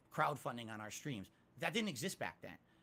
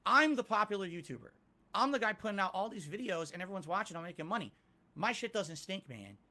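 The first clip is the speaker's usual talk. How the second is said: arrogant self-quote; 4 semitones higher, 4 dB louder than usual. Retold or imitated. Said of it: "That was my attitude".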